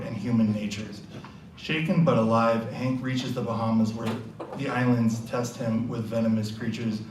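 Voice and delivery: steady storyteller reading an adventure summary; story narration. A narrator's reading. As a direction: narrate the quest like a game master. Reads the quest summary aloud.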